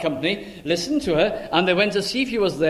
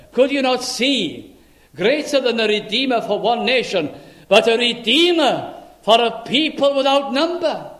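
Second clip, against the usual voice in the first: higher, louder, building; rising preaching; 5 semitones higher, 4 dB louder than usual. Real, not acted. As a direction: build the appeal to its peak.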